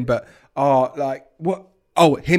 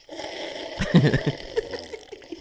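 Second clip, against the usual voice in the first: imitated drinking noise; 7 dB quieter than usual. Shown as a demonstration. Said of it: "I'll try and recreate it".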